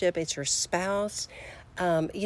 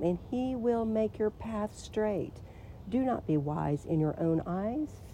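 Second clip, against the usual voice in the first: scripture reading. Real, not acted. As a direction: read the verse with weight. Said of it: "I am gonna read it to you".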